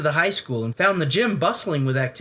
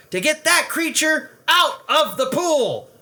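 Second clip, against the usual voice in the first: higher, louder furious ultimatum; a cross coach ordering the boy; angry cry; 5 dB louder than usual. Acted. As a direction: lay down the deadline, upset. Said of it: "he cried".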